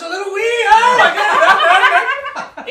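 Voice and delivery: playful mock Irish, amused; Irish accent. Host joking the cookie gave him an Irish accent. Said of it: "It gives you a little accent".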